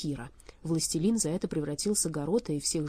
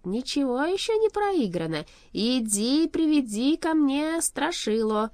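high, loud, drawn-out order; rally and command grandly; rousing command; 8 semitones higher, 5 dB louder, slower than usual. A narrator's reading. Revived king gives orders.

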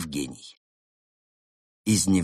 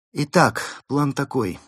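sly fox lady voice; 8 semitones higher, 6 dB louder than usual. Acted. Berta's voice in story.

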